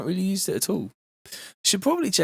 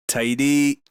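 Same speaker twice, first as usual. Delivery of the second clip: drawn-out Welsh lilt; Welsh accent; 3 dB louder than usual. Shown as a demonstration. Streamer playing along after slipping into Welsh, Welsh accent. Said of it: "that's more like Welsh".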